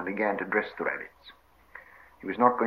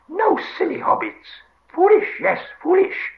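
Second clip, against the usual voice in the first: high, loud creature screech; frightened, angry Gollum; 7 dB louder than usual. Acted. Gollum berates hobbits for lighting fire, frightened shriek. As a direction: berate them in a panicked shriek. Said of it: "both frightened and angry".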